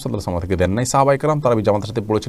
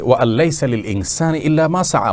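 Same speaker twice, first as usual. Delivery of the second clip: Quranic recitation; 5 semitones higher than usual. Acted. Scholar quoting an Arabic verse.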